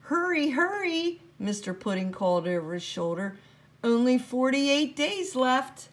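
a busy little man tutting over the rules; the elf boss fretting over a broken rule; fussy little elf. Acted. Mister Pudding calls back.

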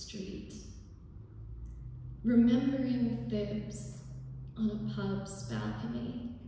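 measured spoken-word reading with long pauses; poem recitation. Acted. Local author reads their poem about community to an audience, poetry reading. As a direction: recite it line by line, letting each image land.

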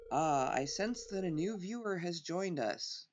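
slow mystical seer voice; fortune teller. Pretend. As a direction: draw it out like a TV psychic. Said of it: "Fortune teller".

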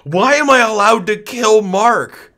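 high, slow incredulous question; amazed question. Real, not acted. Gamer amazed at the game's options, slow incredulous question. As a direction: stretch it out in disbelief.

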